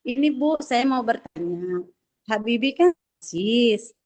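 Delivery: choppy, cutting-out Zoom audio; radio breaking up. Real, not acted. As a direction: voice dropping out on a bad connection. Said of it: "tadi suaranya terputus".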